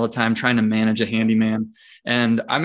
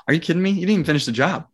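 incredulous; 6 semitones higher, much faster than usual. Retold or imitated. Retold outrage at handyman.

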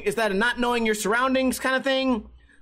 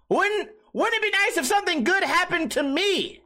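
mock plea; 10 semitones higher than usual. Pleading to the universe.

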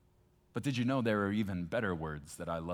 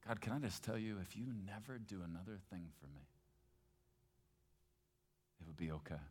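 tender prayer. Acted. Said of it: "and sounded like this?".

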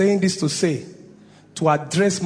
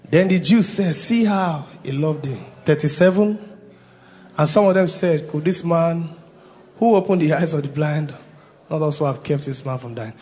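reading together. Real, not acted. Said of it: "one, two, go".

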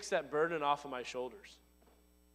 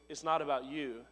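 softer, gentle reminder; encouraging; 3 semitones lower, 4 dB quieter than usual. Shown as a demonstration. Pastor encouraging the congregation, gently. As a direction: say it kindly, not as a whip. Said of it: "I'm not whipping you with".

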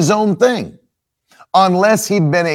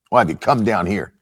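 put-on low scornful older brother; 9 semitones lower, 4 dB quieter, faster than usual. Shown as a demonstration. Preacher voicing Eliab scolding David, low and scornful. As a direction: lower and softer, a sneering accusation. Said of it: "brother's accusation repeated".

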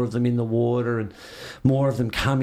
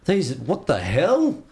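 drawn-out, amazed wow; mildly stunned, words stretched slowly; freaked-out amazement; much slower than usual. Retold or imitated. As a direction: marvel at it, dragging the words out. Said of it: "you'd just freak out".

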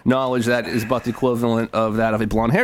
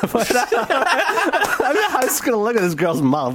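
high-pitched laughing through the words; giggling while asking; 11 semitones higher, slower than usual. Real, not acted. Laughing at imagined sight.

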